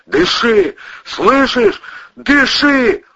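high, loud desperate commands; yelling. Acted. Cousin reviving the woman, loud desperate yelling. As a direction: yell at her to breathe. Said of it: "орал Ковторанг".

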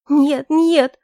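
громкий отчаянный вскрик, выше; рвётся в панике; испуганный крик. Acted. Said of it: "забилась девушка". (девушка в ужасе, что её бросят: высокий громкий вскрик)

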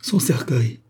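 a faked cry of shock; hammed-up exclamation of grief; mock outcry. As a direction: cry out "Son cercueil" in pretend dismay. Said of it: "s'écria le faux pope".

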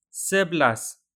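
سبلاس said slowly as se-blas, stress on the first syllable; سبلاس pronounced se-blas like a teacher; Malay word said clearly. Shown as a demonstration. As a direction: sound out سبلاس in two clean syllables, se-blas. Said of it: "انظر كيف نطقنا".

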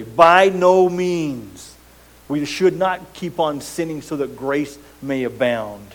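slow, loud, hammered-out no; emphatic. Retold or imitated. Preacher quoting Paul to his congregation, emphatic and loud. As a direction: declare it absolutely, no room for doubt. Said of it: "It's emphatic, it's absolute".

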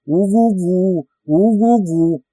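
mock howl. A narrator's reading. Recruit mocks the sergeant in the dark, slow howl. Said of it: "подвывать на алабамский манер".

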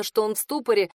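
ordinary delivery

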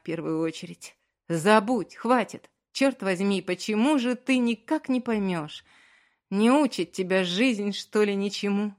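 loud, furious outburst; husband furiously forbids wife's apologies; angry. A narrator's reading. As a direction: pour all his anger into it. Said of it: "со всем гневом произнёс".

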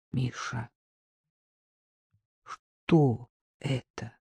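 soft, slow shaken whisper; hoarse whisper. Acted. Woman stunned by the document, whispering to Misha. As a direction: barely breathe the question in shock. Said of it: "прошептала она хриплым голосом".

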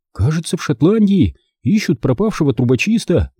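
tentative little reply; unsure. A narrator's reading. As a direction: answer uncertainly in a child's voice. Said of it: "неуверенно сказал Бенджи".

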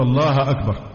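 الله ending in "a", as "Allaha akbar"; wrong case vowel. Retold or imitated. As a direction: say الله with a final a before أكبر. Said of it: "بعضهم يقول". (فتح هاء "الله" خطأً)

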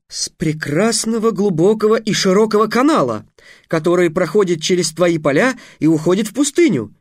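high, lofty sales pitch; a hint of a grand young wizard; boastful young mage. Trix boasts of canal.

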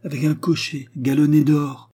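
put-on high, loud gossipy old widow; gossiping concierge. A narrator's reading. Concierge describes Eugénie to Léon, high loud gossiping voice. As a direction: pile on the scandal in a high voice.

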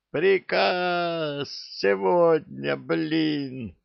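high, slow, can't-hold-it outburst; blurted out. A narrator's reading. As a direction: burst out in disbelief. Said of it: "не сдержался".

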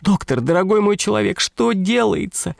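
high breathless woman's voice, gushing; задыхающаяся дама. A narrator's reading. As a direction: gasp it out high with excitement. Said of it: "задыхалась". (дама задыхаясь благодарит доктора)

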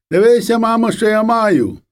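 put-on high, boastful child's call; excited little boy. A narrator's reading. Little boy running to show mother his catch, excited.

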